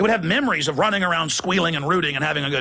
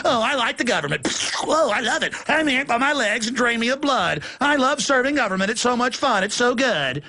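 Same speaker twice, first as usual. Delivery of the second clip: lightly mocking happy victim, higher; gushing docile cow; 4 semitones higher than usual. Cow gushing about serving government, mock adoring voice. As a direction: gush with hammed-up devotion.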